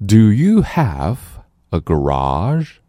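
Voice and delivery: "garage" ending on a clear zh sound; garage ending stressed. Shown as a demonstration. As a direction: say "garage" slowly and finish on the zh sound. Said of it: "注意garage，最后那个日". (强调garage结尾的日音)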